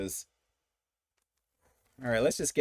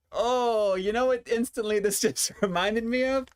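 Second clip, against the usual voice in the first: smelling something awful; 8 semitones higher than usual. Real, not acted. Reacting to a strong smell.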